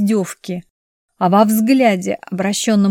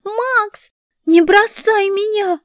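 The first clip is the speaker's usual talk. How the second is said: high desperate scream; 12 semitones higher, slower than usual. A narrator's reading. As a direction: cry out high and pleading. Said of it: "закричала она".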